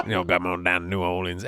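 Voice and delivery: a hint of a New Orleans local telling his story; New Orleans documentary voice. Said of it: "couldn't stop doing that voice".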